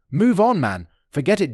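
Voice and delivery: a bitter, mocking laugh dismissing his friend. A narrator's reading. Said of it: "James laughed bitterly".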